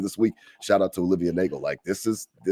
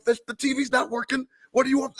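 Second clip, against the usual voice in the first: exasperated retort. Retold or imitated. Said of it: "I'm like".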